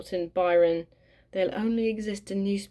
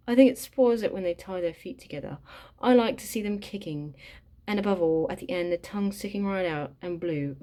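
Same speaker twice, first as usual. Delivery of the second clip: put-on British accent. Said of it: "I refuse to say this in an American accent".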